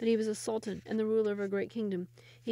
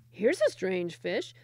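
peasant voice; 4 dB louder, slower than usual. Acted. Peasant finds washed-up Sultan.

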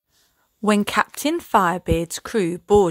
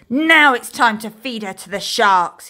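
a louder pirate roar; roaring threat; 3 semitones higher, 6 dB louder than usual. Acted. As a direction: roar the threat, stressing Now. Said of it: "he roared".

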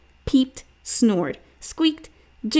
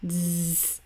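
buzzing zzz; 4 semitones lower, 6 dB quieter than usual. A narrator's reading. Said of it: "Judy made a".

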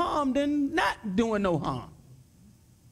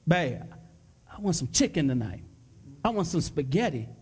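husband asking wife; 8 semitones lower than usual. Retold or imitated. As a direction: lower voice, coaxing the wife for dinner.

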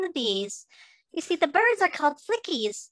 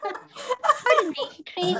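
laughing apology; much slower than usual. Acted. Mom excuses herself after farting.

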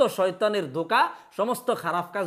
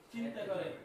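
whispered; 16 dB quieter than usual. Shown as a demonstration. Teacher whispers the repeated answer.

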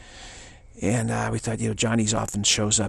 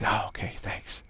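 meek whisper; 5 dB quieter than usual. Retold or imitated. Meek audience reply.

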